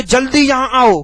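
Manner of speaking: जल्दी यहां आओ all pushed loud and high; a forceful order, every word of जल्दी यहां आओ stressed; whole-sentence stress. Shown as a demonstration. Teacher showing sentence stress, all of जल्दी यहां आओ forceful. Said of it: "यहां पर पूरे पर ही जोर है".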